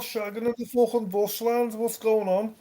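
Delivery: mock Aussie owl. Joins the owl bit.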